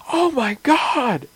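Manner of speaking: high, slow, wide-eyed robot cat; excited robot cat. Pretend. GM voicing the robot cat finding the stairs, high and slow. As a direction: gasp it out like a thrilled newborn machine. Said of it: "he's like".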